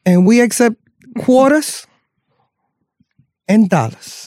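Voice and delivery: high, slow Southern preacher voice. Acted. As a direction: drawl it like a TV preacher. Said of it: "my Southern preacher voice".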